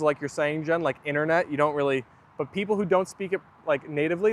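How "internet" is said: "internet" as innernet; slangy "internet". Shown as a demonstration. Streamer agreeing with Jen, casual t-less "internet". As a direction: drop the first t in "internet". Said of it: "you slang a lot of the words".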